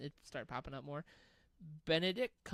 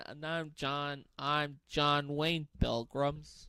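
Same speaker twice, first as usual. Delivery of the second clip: slow, louder cowboy drawl; John Wayne impression; 6 dB louder, slower than usual. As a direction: drawl it like a western hero. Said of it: "Was that the quote from Family Guy".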